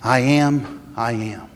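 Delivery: cried out. Shown as a demonstration. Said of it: "Jesus cries this out".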